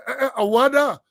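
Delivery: 'Awada!' exclaimed high after two 'eh's; mock surprise. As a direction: look back and exclaim in surprise. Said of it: "you look back, you say".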